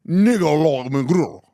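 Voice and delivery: garbled, overdone Spanish "Nicolas Maduro"; mock Spanish accent. Host ridiculing the reporter, exaggerated Spanish accent. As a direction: mangle "Nicolas Maduro" with a heavy Spanish trill. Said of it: "Just do it in Spanish".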